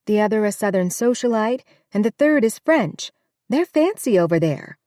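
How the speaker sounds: a hint of a bustling cook listing guests; chatty housekeeper. Housekeeper to Gideon about the girls, chatty.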